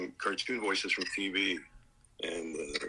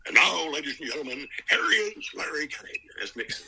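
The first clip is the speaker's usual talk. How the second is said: big radio announcer intro; 5 semitones higher than usual. Retold or imitated. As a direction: boom it like a show host. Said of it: "to introduce my show, I'd go".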